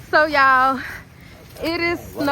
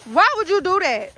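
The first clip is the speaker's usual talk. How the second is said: exclaimed reproach; 5 semitones higher than usual. Real, not acted. Calling out a child's mischief.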